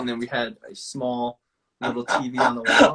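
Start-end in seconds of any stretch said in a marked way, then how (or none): 1.8-2.9 amused high pitch. Real, not acted. Laughing about tiny hospital TV.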